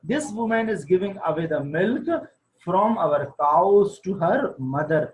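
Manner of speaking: slow, deliberate reading of the English text; slow story reading. A narrator's reading. Teacher reading the wife's line slowly aloud. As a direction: read each word out slowly to the class.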